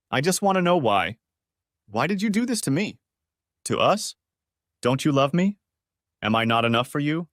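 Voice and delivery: calm and even, a touch of sadness underneath; calm with a hint of sadness. Husband on the phone to his cheating wife, calm and faintly sad. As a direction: keep it controlled, let some hurt show through. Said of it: "I spoke calmly, but with a hint of sadness".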